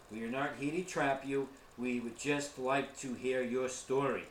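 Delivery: calm, respectful introduction to a spirit; polite spirit address. Shown as a demonstration. Investigator demonstrating how to greet a spirit, calm and respectful. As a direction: speak gently, as if to an unseen guest. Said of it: "it always helps to explain".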